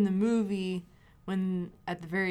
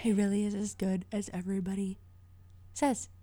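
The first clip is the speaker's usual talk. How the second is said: unvoiced whispered aside; 3 dB quieter than usual. Real, not acted. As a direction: whisper it off-mic. Aside while host talks.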